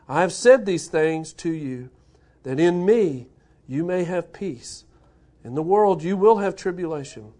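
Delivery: measured, formal Bible reading; solemn scripture reading voice. Acted. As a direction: read the passage aloud to the church.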